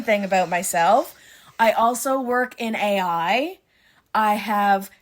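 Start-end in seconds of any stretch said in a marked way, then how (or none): none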